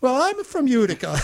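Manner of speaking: imitating a thrilled restaurant owner; excited owner. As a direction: play the owner lighting up.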